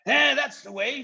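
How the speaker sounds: very high, loud chorus cheer; shouting followers. Acted. Followers cheering the chief's plan, very high and loud. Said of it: "shouted all the other voices".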